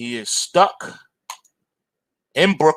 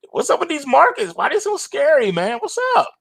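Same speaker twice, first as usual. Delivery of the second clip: much higher, incredulous complaining; high-pitched what's-up exasperation; exasperated high pitch; 11 semitones higher than usual. Real, not acted. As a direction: throw your hands up at the market, pitched way up. Exasperated at scary markets.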